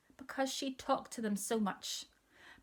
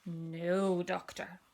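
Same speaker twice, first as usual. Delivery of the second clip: put-on stubborn child; much slower than usual.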